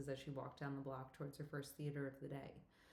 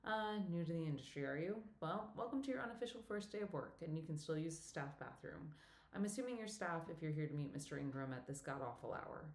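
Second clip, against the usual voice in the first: put-on older woman Betsy. Betsy's lines voiced.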